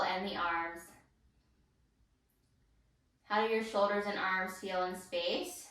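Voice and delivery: calm, measured guide voice with long pauses; unhurried meditation-teacher delivery; guided body scan. Real, not acted. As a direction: guide them gently through the body, leaving room to feel.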